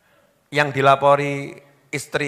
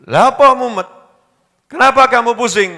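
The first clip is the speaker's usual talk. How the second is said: excited friend; 8 semitones higher, 6 dB louder than usual. Retold or imitated. Friend asking wife eagerly.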